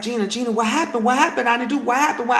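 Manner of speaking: retold bewildered, repeated questioning; frantic questioning. Husband to furious wife, imitated flustered urgency.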